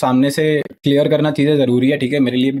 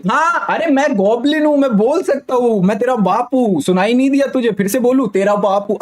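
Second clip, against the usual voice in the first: much higher, sneering mock boast; mocking the bragging guy; 8 semitones higher than usual. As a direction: ham up the drunk guy's bragging, pitched way up.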